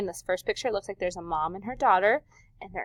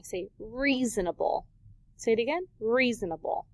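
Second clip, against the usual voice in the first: 1 teacher modeling. Shown as a demonstration. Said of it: "say it after me".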